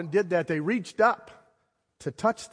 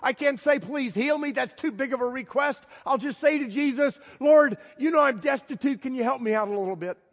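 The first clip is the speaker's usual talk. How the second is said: higher, nervous inner voice; imagined hesitant thoughts; 8 semitones higher than usual. Pretend. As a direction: voice his timid thinking. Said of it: "He might have been thinking to himself".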